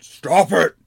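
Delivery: yell, bothered and prodded; annoyed yell. Acted. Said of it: "the rock musician got bothered and yelled".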